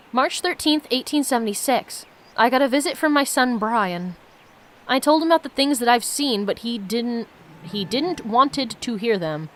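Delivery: steady read-aloud narration of the game text; reading the story to viewers, lightly lifted. Acted. Streamer reads the game's story to viewers, steady narration.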